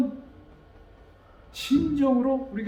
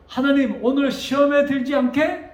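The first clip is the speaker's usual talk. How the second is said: emphatic prayer, raised and loud; 4 semitones higher, 5 dB louder than usual. Acted. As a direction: pray it out firmly to God. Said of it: "우리는 기도를".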